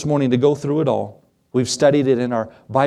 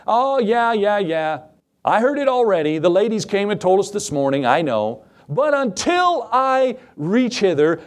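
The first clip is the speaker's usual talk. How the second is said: dismissive Thomas; 5 semitones higher than usual. Acted. Thomas voiced brushing off apostles.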